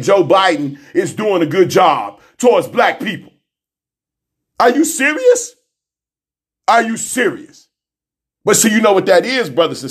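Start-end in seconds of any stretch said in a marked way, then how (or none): 4.6-5.5 disbelieving. Real, not acted. Incredulous repeat, higher.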